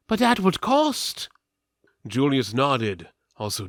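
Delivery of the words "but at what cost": high, loud, ominous steward voice; steward speaking darkly. A narrator's reading. The royal steward warning of the cost, high and grave. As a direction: raise it high and heavy with dread. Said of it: "the steward said darkly".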